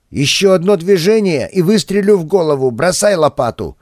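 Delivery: high, loud commanding threat; armed threat. Acted. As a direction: bark the warning from the dark. Gardener threatens with a gun.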